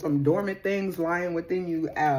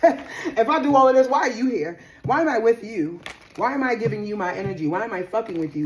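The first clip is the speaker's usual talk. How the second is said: higher, indignant rhetorical questions, loud at first; indignant questioning; 4 semitones higher, 4 dB louder than usual. Acted. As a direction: fire off fed-up questions, easing as they go. Acting out fed-up partner confronting.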